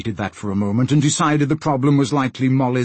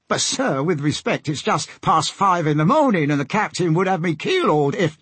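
higher-pitched deckhand protest; protesting sailor; 5 semitones higher than usual. Acted. Sailor protests waking the captain at five, higher voice. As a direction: plead respectfully in a sailor's voice.

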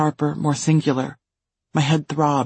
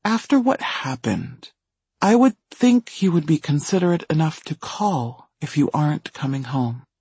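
uncomfortably calm. Acted. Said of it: "his voice was uncomfortably calm".

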